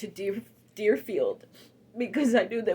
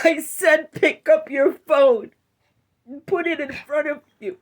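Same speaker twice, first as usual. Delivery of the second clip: firm command; 3 semitones higher, 8 dB louder than usual. Retold or imitated. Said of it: "I heard the voice louder and stronger".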